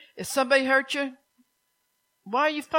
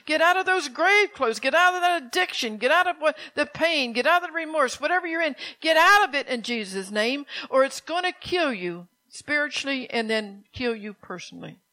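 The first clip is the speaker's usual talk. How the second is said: crying out. Acted. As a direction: summon them out of the grave with force. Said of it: "And he's crying".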